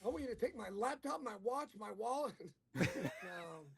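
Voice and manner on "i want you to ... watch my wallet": tag. Acted. Riffs as the girl making demands.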